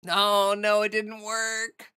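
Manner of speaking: hiccuping through the words; talking with real hiccups. Real, not acted. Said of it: "I was holding my breath".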